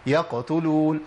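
light qalqala on the ق of يقتلون, no strain; no effort. Shown as a demonstration. Teacher shows the class how easy it is, effortless articulation. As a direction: say يقتلون with an easy, unforced qaf release. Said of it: "ما عملتش مجهود خالص".

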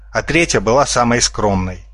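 ordinary delivery, nothing marked

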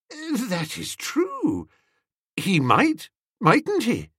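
slow, choked, near tears; speaking with difficulty. A narrator's reading. Master overcome by valet's brilliance, slow and choked. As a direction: force the words out, overcome. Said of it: "speaking with some difficulty".

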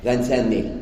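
mock customer in French. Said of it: "لا تقول فانسان ميل".

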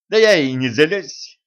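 slow, loud words with a laugh in them; chuckling. Acted. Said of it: "хохотнула царевна". (со смешком, громко и медленно)

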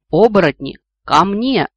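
громко созывай своих; протяжный командный зов; призывный клич. A narrator's reading. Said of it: "позвал дедушка". (громкий клич вожака)

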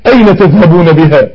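a lightly voiced doomed soul crying out; mild mock wail of a lost soul; damned soul wailing. The lost soul crying at its own burial, lightly wailed. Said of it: "التاني بيقول والعياذ بالله".

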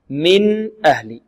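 من أهل slowly, the N fully sounded before the hamza; clear N. Shown as a demonstration. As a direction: articulate the N cleanly in من أهل, no merging. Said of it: "النون الساكنة تظهر".

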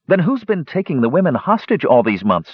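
demanding. A narrator's reading. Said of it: "Palin demanded".

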